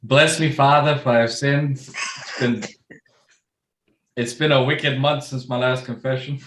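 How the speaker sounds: put-on Boston accent confession. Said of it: "with my best Boston accent".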